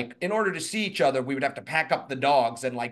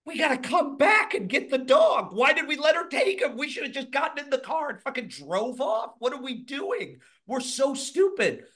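panicked self-blame; 9 semitones higher than usual. Retold or imitated.

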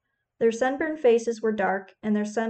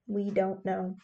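softer, trailing-off repeat; fading repeat; 2 semitones lower, 6 dB quieter, slower than usual. A narrator's reading. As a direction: let it fade away hopelessly. Men answer the worried women.

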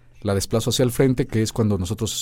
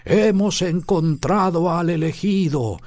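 high, slow storyteller elder; wise old turtle; 8 semitones higher, slower than usual. Shown as a demonstration. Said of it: "la tortuga de Kung Fu Panda".

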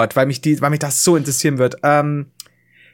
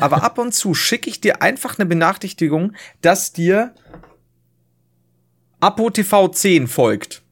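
laughing; 3 semitones higher than usual. Retold or imitated. Voicing Twitter, laughing.

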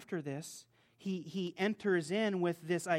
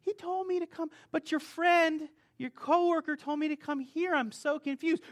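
baffled protest; 10 semitones higher, 4 dB louder than usual. Retold or imitated. Baffled reply to shop staff.

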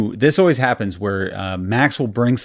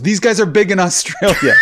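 vouching rapper; 7 semitones higher than usual. Retold or imitated. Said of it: "he goes".

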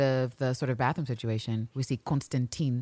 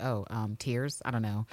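awkward Carolyn; 7 semitones lower, 7 dB quieter than usual. Retold or imitated. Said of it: "She's like".

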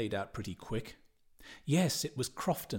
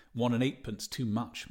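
dry remark. Acted. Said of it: "Mister Daedalus said dryly".

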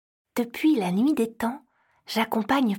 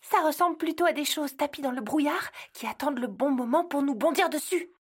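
hushed, higher voice imagining lurking beasts; fearful murmur; 4 semitones higher than usual. Acted. Elf whispers her fear of lurking beasts to Santa, hushed. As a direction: breathe it as if they might hear you. Elf fears creatures in fog.

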